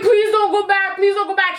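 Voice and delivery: urgent retold begging; tearful pleading. Begging cousin mid U-turn, retold tearful plea. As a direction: plead on repeat in mock tears. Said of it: "crying at this point".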